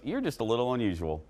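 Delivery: lightly imitated Southern twang, quick and understated. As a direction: retell it with a touch of Southern accent. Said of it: "in that great Southern twang".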